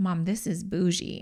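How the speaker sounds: mock, imitated whisper. Retelling what her sixteen-year-old daughter said walking into a lounge, retelling a whisper. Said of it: "she whispers".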